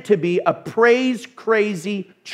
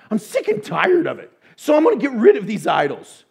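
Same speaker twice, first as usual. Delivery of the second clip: fed up, louder; 3 semitones higher than usual. Retold or imitated. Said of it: "we go".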